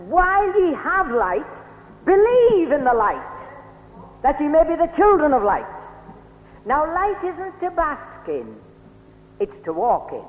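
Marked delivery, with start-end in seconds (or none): 0.1-5.7 quoting Jesus. Acted. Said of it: "And the Lord Jesus says".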